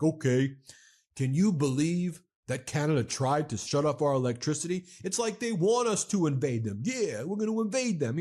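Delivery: mocking tough-guy TV pundit, pitch rising; acting all tough. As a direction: put on mock indignant bravado. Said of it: "act all tough to kind of cover it up".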